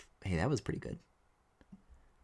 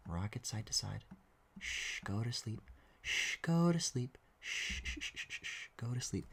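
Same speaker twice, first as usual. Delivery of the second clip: whispering over a crib; 7 dB quieter than usual. Pretend. Lulling the mesh to sleep.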